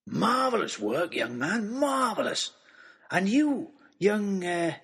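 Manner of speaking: put-on booming, delighted old giant greeting the boys; a big jovial old man, bursting with joy; jolly giant man. Christmas man voiced in story.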